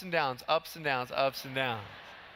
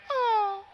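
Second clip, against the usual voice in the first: loud, high-pitched "oh"; high squeal; 5 dB louder than usual. Retold or imitated. Speaker acting out what his bent foot did, high squeal. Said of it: "my foot went".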